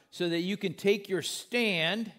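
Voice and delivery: "stand" drawn out for emphasis; stress on stand. Shown as a demonstration. Preacher reads the verse to the congregation, stressing "stand". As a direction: lean firmly on the word "stand". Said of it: "I emphasize that word stand".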